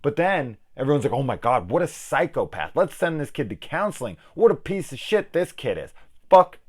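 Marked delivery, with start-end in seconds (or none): 1.1-5.9 mock outrage. Mimicking everyone's shocked overreaction.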